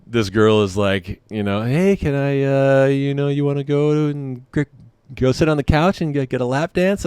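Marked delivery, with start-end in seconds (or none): 1.6-7.1 higher-pitched come-on voice; imitated stripper. Stripper inviting a shy customer to the couch, higher imitated voice. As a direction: mimic a girl making an offer.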